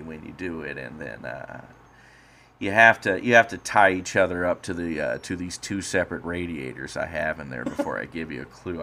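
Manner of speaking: lightly voiced creepy killer; a touch of a menacing host; serial killer voice. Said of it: "I'm gonna talk like I'm a serial killer now".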